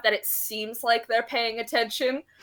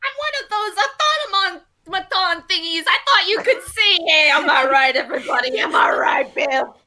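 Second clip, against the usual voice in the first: lightly voiced cocky little automaton; little dude persona; 5 semitones higher, faster than usual. Chattering away at these people, brash little persona. Automaton character answers scientist.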